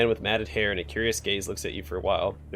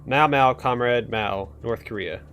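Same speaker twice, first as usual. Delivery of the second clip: hysterical scream; slower than usual. Acted. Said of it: "screams hysterically".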